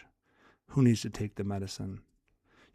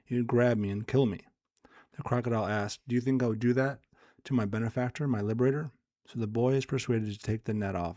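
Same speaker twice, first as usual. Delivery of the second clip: measured, lightly animated story reading; storyteller with a touch of drama; parable read aloud. Acted. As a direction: read a fable aloud with lightly voiced dialogue.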